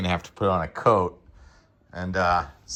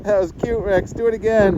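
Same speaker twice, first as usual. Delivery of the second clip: praising the dog; 9 semitones higher, 4 dB louder than usual. Real, not acted. Praising dog rolling around.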